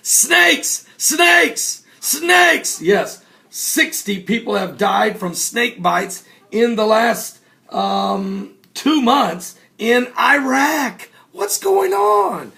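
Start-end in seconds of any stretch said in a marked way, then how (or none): 0.0-2.8 high, spaced, ominous repetition; dramatic snakes. Acted. Dramatic repeated announcement. 11.3-12.5 very high slow incredulous wail; mock bewilderment. Exaggerated bewildered cry.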